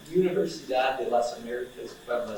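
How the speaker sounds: a clumsy Spanish accent on the name. Real, not acted. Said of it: "Sorry for my dad's Spanish accent".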